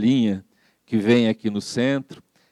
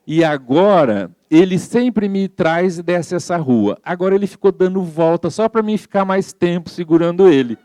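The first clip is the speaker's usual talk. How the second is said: higher, lightly voiced little old lady; naive old lady; 5 semitones higher than usual. Old lady tells the priest about the mototaxi man, higher naive voice. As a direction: play the sweet naive grandma, a bit higher.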